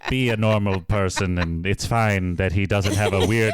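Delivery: put-on rambling questionable Irish accent; Irish accent. Podcaster as the reviewer summing up the film, in mock Irish. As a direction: keep a light mock brogue going as you improvise. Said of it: "questionable attempt at an Irish accent".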